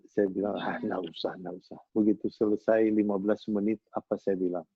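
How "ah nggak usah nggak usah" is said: low, soft brush-off; calm dismissal. Retold or imitated. Father telling child there is no need, low unbothered murmur. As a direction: decline quietly, trailing lower and softer.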